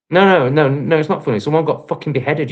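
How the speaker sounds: loud furious shout; angry shout. Real, not acted. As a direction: shout the no's down hard. Ranting at a commenter.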